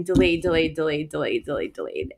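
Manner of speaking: fading repetition. Shown as a demonstration. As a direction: let delayed sink and fade. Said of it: "repeated word fading down".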